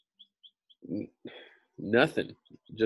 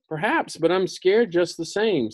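lion voice; 9 semitones higher, 5 dB louder than usual. A narrator's reading. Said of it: "said the lion".

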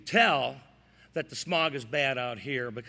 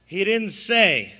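slow deadpan punchline; 3 semitones higher, 6 dB louder, slower than usual. Pretend. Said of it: "It's all in the timing".

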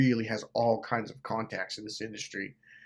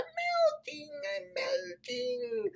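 high, drawn-out melting wail; thin high voice, trailing away slowly; Wicked Witch; 6 dB quieter, much slower than usual. Acted. Narrator quoting the dying witch to his viewers, high mock wail. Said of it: "on the Wicked Witch".

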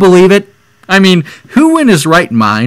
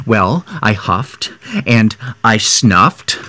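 storybook reading. Acted. Reads the wolf's story aloud.

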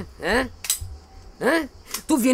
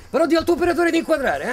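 laughing threat; 6 semitones higher, 4 dB louder than usual. Acted.

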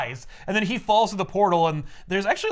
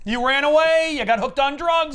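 mock suggestions; 8 semitones higher, 5 dB louder than usual. Parents inventing cover stories.

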